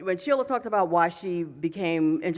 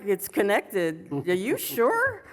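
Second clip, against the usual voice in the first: skeptical retold doubt; slower than usual. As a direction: echo it slowly, then question it in mock disbelief. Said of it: "sometimes I had my doubts".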